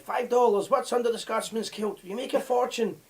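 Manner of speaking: a rough Dutch accent impression; hawking in a clumsy Dutch accent. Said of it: "I'm trying to do the Dutch accent here".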